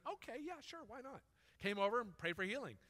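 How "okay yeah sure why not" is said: casual okay. Shown as a demonstration. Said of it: "I just went".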